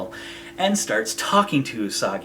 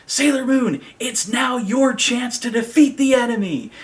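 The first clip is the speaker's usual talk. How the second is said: lightly voiced dashing hero calling down; a hint of a gallant rescuer; mock heroic call; 9 semitones higher than usual. Tuxedo guy urging Sailor Moon from the rafters, lightly mock heroic. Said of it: "is like".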